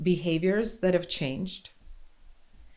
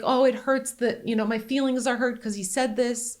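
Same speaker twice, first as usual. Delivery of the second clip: hurt feelings; 5 semitones higher than usual. Retold or imitated.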